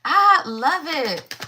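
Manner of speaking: slow, savoring, stretched I love it; drawn out. Real, not acted. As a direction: stretch each word out and savor it. Savoring the same card again.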